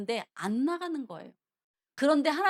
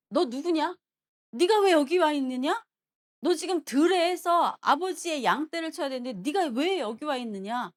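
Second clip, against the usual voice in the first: raised, accusing big-brother voice; Eliab's browbeating scolding; 3 semitones higher, 4 dB louder than usual. Retold or imitated. Eldest brother finding David at the battlefield, browbeating him. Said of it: "모략을 하고 윽박지르는 거예요".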